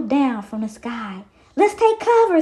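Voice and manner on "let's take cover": captain's call. Acted. Treasure calls out in rain.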